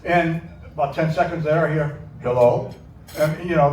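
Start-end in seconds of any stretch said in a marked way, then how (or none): 2.2-2.7 Jerry voice. Retold or imitated. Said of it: "that Jerry voice".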